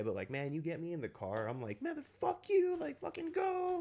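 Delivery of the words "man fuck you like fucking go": much higher, louder yelled curse at another driver; road rage yell. Retold or imitated. Imitating himself yelling at a driver in traffic, furious. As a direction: blow up at the car ahead, voice cracking high. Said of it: "I get mad road rage".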